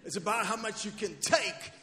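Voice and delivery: high, very loud boxer pep talk; hammed-up, shouted film-hero rallying cry; Rocky. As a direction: belt out the movie-boxer impression to a big finish. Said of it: "that's my Rocky impression".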